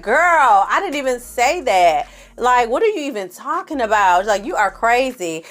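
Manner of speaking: mock exasperated Tanisha; exasperated quote. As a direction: brush off the nonsense. Tanisha brushing off New York.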